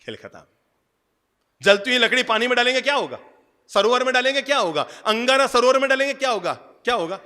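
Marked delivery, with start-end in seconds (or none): 1.6-7.2 fast, loud, high preacher questions; preaching at full force. Acted. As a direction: drive the questions at the crowd. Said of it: "preaching quiz".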